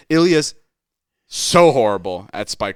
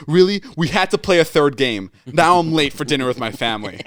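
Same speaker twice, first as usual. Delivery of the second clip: annoyed complaint; 5 semitones higher than usual. Retold or imitated. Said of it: "he goes".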